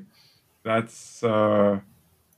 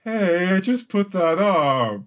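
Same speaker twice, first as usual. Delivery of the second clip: indignant ogre; 5 semitones higher than usual. Acted. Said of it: "one of the ogre goes".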